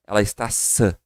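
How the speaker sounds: sã said like English son; comparison word. Shown as a demonstration. Teacher compares sã to son for students. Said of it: "parecido com aquela palavrinha".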